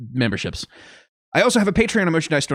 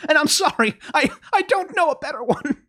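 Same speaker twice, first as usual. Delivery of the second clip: high-pitched, helpless self-defence; exasperated protest; 9 semitones higher than usual. Real, not acted. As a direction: plead your case in a raised pitch. Defends own bad accent, exasperated.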